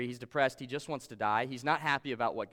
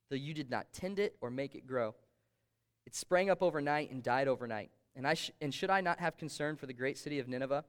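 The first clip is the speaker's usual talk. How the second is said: measured Bible reading voice; scripture reading. Acted. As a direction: read God's words aloud, steady. Pastor reads Jonah's scripture aloud.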